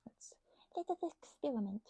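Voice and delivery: mischievous unvoiced whisper. Real, not acted. About to taste the tea, a playful whisper. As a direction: whisper it like a secret plan.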